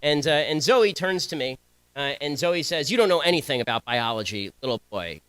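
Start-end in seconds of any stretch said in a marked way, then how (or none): 2.9-5.2 a much lower, mocking imitation of Zoe; a retold taunt, lightly imitated in a deep register. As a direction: drop the voice low to mimic the put-down. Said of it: "in a voice at least an octave lower than mine".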